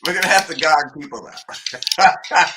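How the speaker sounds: can barely get it out for giggling; laughing excitedly. Real, not acted. Host laughing about gonging out callers.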